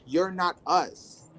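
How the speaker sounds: slow, cold brush-off; slowly mocking the gay men's rejection; dismissive gay men. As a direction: drag it out to shut them out. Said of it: "Gay man would be like".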